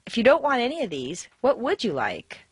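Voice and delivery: mild exasperation, leaning on "would"; a little exasperated. Shown as a demonstration. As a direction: ask with strained patience, stressing "would". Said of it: "and a little exasperated".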